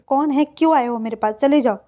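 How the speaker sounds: loud, rising get-lost shout. Acted. Wing shouting through the locked door, loud. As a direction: yell at the door to go away. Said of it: "विंग जो चिल्लाते हुए थे".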